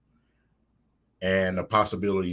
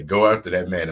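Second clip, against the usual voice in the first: Teddy voice; 5 dB louder than usual. Pretend. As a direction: say it like a cuddly teddy bear. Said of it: "in my, my Teddy voice".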